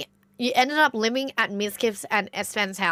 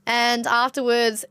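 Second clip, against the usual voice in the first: ordinary talk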